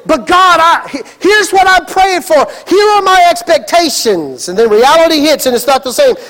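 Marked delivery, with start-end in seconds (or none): 0.0-4.5 pleading believer. Retold or imitated. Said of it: "we say things like this".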